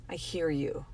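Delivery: "I hear you" said softly, close and sincere; soft reassuring. Real, not acted. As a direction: drop to a hush on "I hear you" to comfort.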